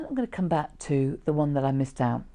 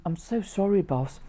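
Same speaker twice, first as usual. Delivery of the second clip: fake sad apology; 4 semitones higher than usual. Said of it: "and I'm".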